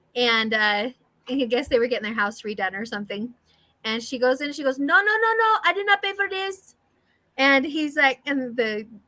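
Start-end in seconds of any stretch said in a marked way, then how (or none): 4.7-6.7 very high-pitched, protesting Cuban mother voice. Retelling a comedian's bit about his mom and house work: imitating a comedian's cuban mom. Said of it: "he makes an impression of her".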